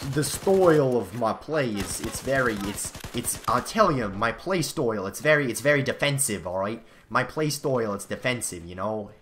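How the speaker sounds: put-on half-joking New Jersey accent bragging about defensive play; mock New Jersey accent. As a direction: lean into a jokey New Jersey twang. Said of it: "New Jersey half of my, you know, uh, jeans kicking in".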